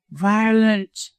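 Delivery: high, gasped cry of alarm; gasping. A narrator's reading. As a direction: gasp it out in a high voice. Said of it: "he gasped".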